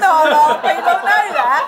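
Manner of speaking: Michael Caine impression. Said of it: "It's like Michael Caine".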